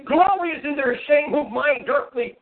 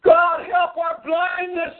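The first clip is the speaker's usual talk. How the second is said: pleading cry; slower than usual. Real, not acted. Preacher cries out in prayer.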